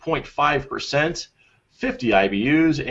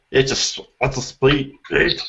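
bad Scottish accent. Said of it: "That's Scottish as crap".

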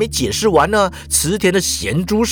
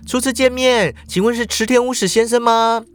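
put-on higher-pitched courteous young visitor; polite smiling greeting; 6 semitones higher than usual. A narrator's reading. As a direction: ask politely with a light smile. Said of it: "淑华笑了笑就说". (带笑的客气问候)

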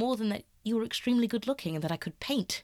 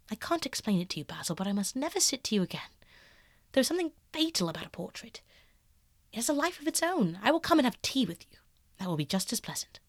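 lightly voiced youth, a touch higher; young Dorian; 3 semitones higher than usual. Dorian guarding his secret from Basil, lightly higher.

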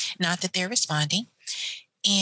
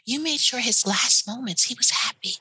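compassionate nurse; 6 semitones higher than usual. Retold or imitated. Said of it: "She was like".

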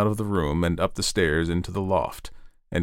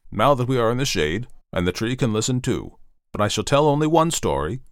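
lightly voiced storyteller; 2 semitones higher than usual. Little fat man asking children to choose, lightly voiced. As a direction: offer the choice like a kindly uncle.

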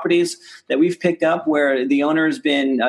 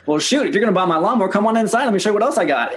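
eager invitation; 8 semitones higher than usual. Retold or imitated. Neighbor's eager invitation retold.

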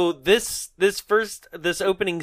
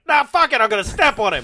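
high loud gleeful villain; 8 semitones higher, 5 dB louder, faster than usual. Retold or imitated. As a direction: brush it off like a brute. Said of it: "Alexander's like".

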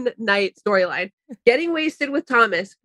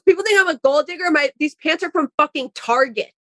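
higher, fast scornful quip; quick sassy quote; 6 semitones higher than usual. Retold or imitated. Imitating Catherine shrugging off gold-digger talk, sassy. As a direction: rattle it off dismissively. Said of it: "And then she goes".

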